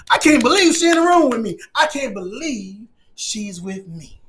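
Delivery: marveling, drawing out the last words; acted amazement, fading at the end; awestruck disbelief. Acting out an awestruck man.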